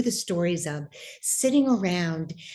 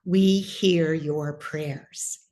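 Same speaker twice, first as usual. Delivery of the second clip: slow solemn whisper-like message; 2 semitones lower, much slower than usual. Retold or imitated. Great aunt's spirit speaks to her.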